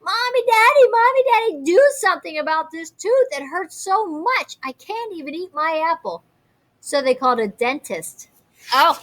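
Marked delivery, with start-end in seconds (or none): 0.0-6.2 put-on high, loud whiny kid yell about a sore tooth; yelling child. A narrator's reading. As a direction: wail it like a child in pain to mommy. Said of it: "and yelled".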